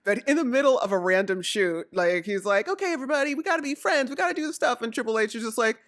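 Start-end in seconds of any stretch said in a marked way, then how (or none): 2.7-4.8 higher-pitched mock earnest pep talk; rally everyone in a raised, imitating voice; imitated rallying plea. Retelling Kofi rallying everybody mid-promo, mock rallying plea.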